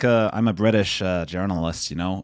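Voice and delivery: a half-hearted, badly faked American accent. Shown as a demonstration. British guest jokes by faking a bad American accent. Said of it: "that's my American accent".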